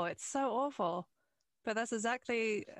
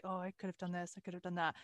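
muttered self-reproach; 4 semitones lower, 6 dB quieter, faster than usual. Retold or imitated. Replays own thought after leaving set.

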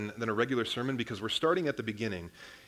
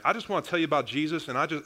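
mock Southern backwoods accent; 4 semitones higher, 3 dB louder, faster than usual. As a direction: poke gentle fun at a Kentucky country boy in a Southern accent. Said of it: "this backwoods boy that's like".

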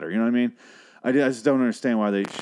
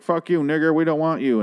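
mock racist yell; 7 semitones higher, 5 dB louder than usual. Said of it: "He's like".

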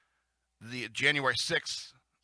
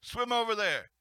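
mock yelling; 7 semitones higher than usual. A sailor yelling rudely at a man overboard, hammed-up shout. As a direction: shout it like a rude shipmate. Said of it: "You can't just say".

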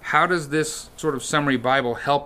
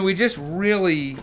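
ordinary delivery

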